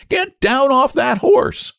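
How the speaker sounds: very high, slow, furious treble order; ferocious command. A narrator's reading. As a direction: order it fiercely, drawing out each word. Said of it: "in a ferocious voice".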